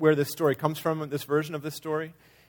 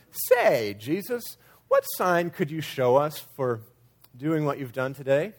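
innocent curious question, rising at the end; genuinely wondering; slower than usual. Acted. Leaders asking Jesus for a sign, genuinely wondering. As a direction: ask it openly, as if truly wanting to know. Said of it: "they were genuinely wondering of Jesus".

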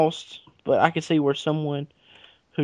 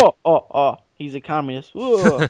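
put-on Russian accent; 3 dB louder than usual. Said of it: "That's my Russian accent".

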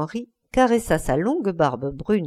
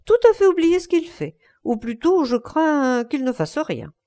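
higher, gushing society-hostess mimicry; mimicking Lady Brandon; 5 semitones higher than usual. Basil mimics Lady Brandon introducing Dorian, higher gushing voice. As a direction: play the chattering hostess, pitched up. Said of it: "dans ce genre".

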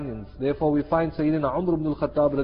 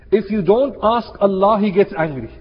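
emphatic warning; 5 semitones higher, 6 dB louder than usual. Real, not acted. Preacher's warning.

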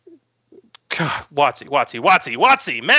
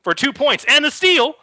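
higher, louder booming host voice; game show host; 6 semitones higher, 6 dB louder than usual. Pretend. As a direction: play the quiz host calling for answers. Game show host quiz bit.

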